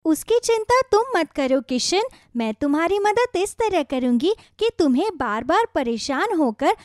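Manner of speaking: a gentle talking radish giving advice; magic radish. Acted. Magic radish gently advising worried farmer Kishan, kindly.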